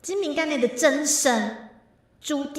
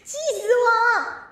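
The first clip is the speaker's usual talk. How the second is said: mock angry; 7 semitones higher, 4 dB louder than usual.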